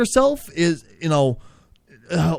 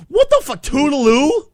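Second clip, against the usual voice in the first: shocked outburst; 6 semitones higher, 5 dB louder than usual. Real, not acted. Host reacts to the catchphrase.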